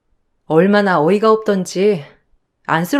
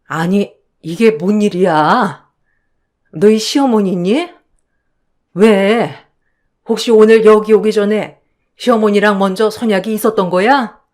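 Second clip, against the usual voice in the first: a concerned mum fretting over her daughter; worried mother. Acted. Mother asking her daughter what happened, worried.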